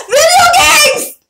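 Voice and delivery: high, drawn-out excited shout; excited cheer. Real, not acted. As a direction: yell it out with pure fan delight. Excited shout about video games.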